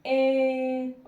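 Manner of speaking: ए said loud and firm as the answer; teacher answering her own question out loud; emphatic answer. Shown as a demonstration. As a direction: call out ए loudly to answer the class. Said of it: "कौन सी sound आ रही है?".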